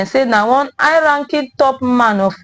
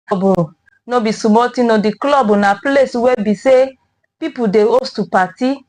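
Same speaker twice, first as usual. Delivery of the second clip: Nigerian Pidgin news delivery. Real, not acted. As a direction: read the news in Naija Pidgin. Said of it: "our Pidgin Headline Review".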